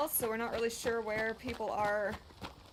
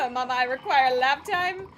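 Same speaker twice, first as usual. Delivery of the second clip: Gertrude the cat; 2 semitones higher, 7 dB louder than usual. Acted. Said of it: "'cause she's just like".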